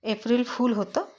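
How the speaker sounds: mildly annoyed disbelief; a touch of irritation, asking in disbelief; slightly irritated. Acted. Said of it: "थोडासा चिडून म्हणाला". (थोडासा चिडून, अविश्वासाने)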